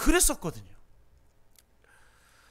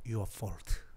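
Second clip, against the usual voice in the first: low, soft and tender, much lower; tender reassurance; 11 semitones lower, 12 dB quieter, much slower than usual. Acted. Therapist gently telling the young genius it's not his fault. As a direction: comfort him slowly. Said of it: "이렇게 얘기합니다".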